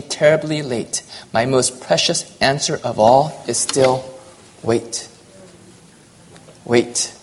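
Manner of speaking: measured, rhythmic poem reading; poem recital. A narrator's reading. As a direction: read the verse aloud with feeling, letting lines fall. Reads a poem aloud.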